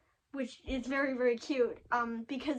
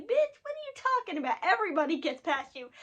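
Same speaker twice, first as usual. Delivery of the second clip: high, quick mocking comeback; retold savage put-down, pitched up in disbelief; snarky, savage Batman; 5 semitones higher, faster than usual. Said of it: "that snarky, savage Batman".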